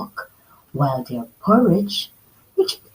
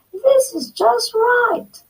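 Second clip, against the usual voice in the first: high, slow satisfied voice; delighted; slower than usual. Acted. Girl finishing Baby Bear's porridge, slow and high. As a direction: savor it, this one's perfect. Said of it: "she cried".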